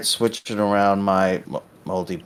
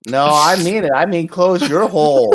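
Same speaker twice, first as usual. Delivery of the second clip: loud, high-pitched insistence; heated in-character comeback; insistent retort; 8 semitones higher, 5 dB louder than usual. Acted. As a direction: press the threat with a raised voice. Acted quarrel between two characters.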